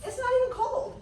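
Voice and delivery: high laughing playful brag; laughing mock boast. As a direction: scoff that it's nothing. Voicing the body, now used to it.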